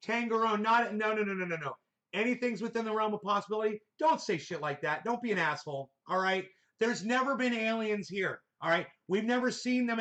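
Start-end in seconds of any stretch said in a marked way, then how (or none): 2.1-3.8 quick, incredulous throwback of a comment; objecting echo. Retold or imitated. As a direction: repeat it back in disbelief.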